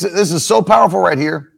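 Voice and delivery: usual speaking voice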